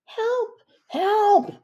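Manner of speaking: yelled high and loud; high shouts for help. Acted. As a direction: cry out for help in a panic. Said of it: "shouted Stink Bomb and Ketchup Face".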